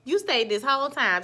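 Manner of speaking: jokey fake astonishment at a loyal viewer; mock surprise. Real, not acted. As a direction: tease the viewer who stuck around, pitch way up. Teasing viewers who stayed.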